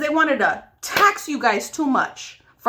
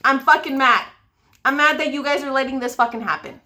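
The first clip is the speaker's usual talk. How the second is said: real anger. Real, not acted. Ranting to viewers while doing makeup, genuinely angry. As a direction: let the frustration boil over. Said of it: "I get so angry talking about this".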